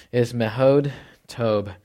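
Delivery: slow, careful "mehod tob"; Hebrew term. Shown as a demonstration. Pastor teaching his church the Hebrew "mehod tob", slowly. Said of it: "In the Hebrew ... two words here".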